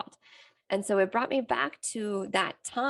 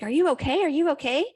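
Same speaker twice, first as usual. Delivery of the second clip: higher, louder worried calling from the other room; 7 semitones higher, 7 dB louder, faster than usual. Retold or imitated. Partner hears yelling and calls out, worried and louder. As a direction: call out anxiously to check on her. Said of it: "He was like".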